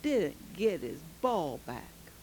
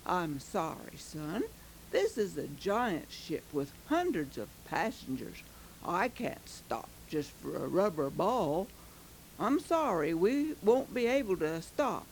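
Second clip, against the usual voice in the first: lower, softer fatherly captain; calm captain; 4 semitones lower, 4 dB quieter than usual. Acted. Captain gently refuses the boy's plea, lower and softer. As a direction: gently turn the boy down. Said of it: "the captain only said".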